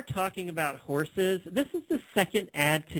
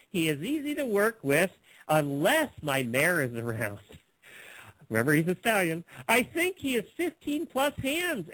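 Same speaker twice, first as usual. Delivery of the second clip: exaggerated, swooping seller's read; put-on ad reading; 2 semitones higher than usual. Host reads a rambling stallion ad, hammed-up reading. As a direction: lean on the odd phrases with big lilts. Reading a classified ad aloud mockingly.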